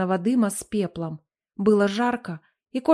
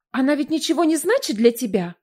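higher, affected, edging on hysteria; simpering voice; 4 semitones higher than usual. Acted. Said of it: "Жеманный голос леди Релье ... звенел с нотками истерики".

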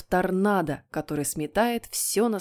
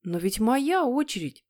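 put-on higher-pitched child's protest; indignant; 4 semitones higher than usual. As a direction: protest as a wronged little boy. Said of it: "возмутился послушный Питер". (возмущённо, по-детски)

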